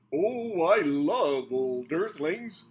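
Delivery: loud, slow gushing alien voice; excited exclaim. A narrator's reading. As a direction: gush it out with delight. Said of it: "Motorwall exclaimed".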